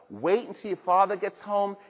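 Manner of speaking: a hint of a mother threatening her kids; mother's warning. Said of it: "Your mother didn't have to say".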